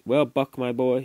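a hint of a jovial master; genial voice. A narrator's reading. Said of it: "he went on in a genial voice".

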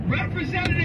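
high yell at a phone robot. Retold or imitated. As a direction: shout it at the automated line. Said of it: "I didn't have to yell".

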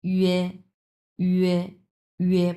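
"ইয়ে" starting on a rounded ü, gliding to e; measured, held "ইয়ে", pressed at the front; pressed ü-e glide. Shown as a demonstration. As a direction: say "ইয়ে" with pressure at both sides of the gums. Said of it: "pressure দিয়ে উচ্চারণ করতে হয়".

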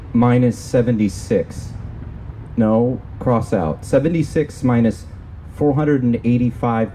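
measured, deliberate poem recital; spoken-word reading of a poem; poetry reading. Acted. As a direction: read it as a poem, phrase by phrase with pauses. Reads own poem aloud.

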